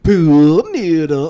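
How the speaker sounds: dramatic announcement. Pretend. Mock announcing giveaway prize.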